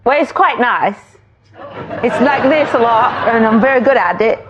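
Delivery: American attempt at a British accent. Shown as a demonstration. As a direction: show off a put-on British accent. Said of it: "How does your British accent go?".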